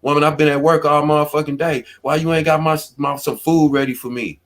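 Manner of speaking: grumbling at the wife over dinner; mock complaint. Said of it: "I coulda came in the house and say".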